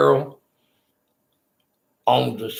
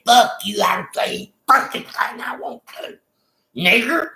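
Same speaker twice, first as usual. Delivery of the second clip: pitched-up mock shout at the guards; retold angry yelling; 10 semitones higher than usual. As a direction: replay the row, voice pushed up high and hot. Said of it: "I said".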